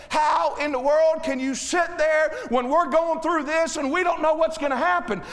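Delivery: understated mimicked exasperation; imitating upset wife. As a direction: fret indignantly in imitation of a wife. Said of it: "she'll get upset".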